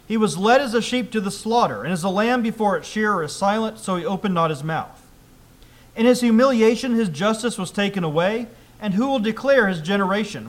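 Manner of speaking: loud, emphatic public Bible reading; scripture reading. Acted. Preacher reads Acts to the congregation, loud scripture reading. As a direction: read the passage out firmly to the congregation.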